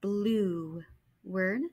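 Blue said as one blended word; blending. Shown as a demonstration. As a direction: blend the sounds smoothly.

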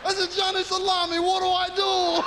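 high mobster voice straining through laughter; hysterical mobster laughter. Acted. Mobster asking Johnny Salami for help, high laughing shout. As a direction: shout it while helpless with laughter. Mobster cracking up at own story.

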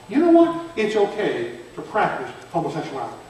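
a hint of a tempting voice; the cry of Jezebel. Preacher voicing Jezebel's false teaching to the class, lightly. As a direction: lightly voice the seducer's pitch. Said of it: "That is the cry of Jezebel".

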